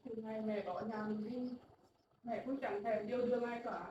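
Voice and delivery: mother quietly telling her son about her lonely years; soft confession. Acted. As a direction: murmur the past with regret.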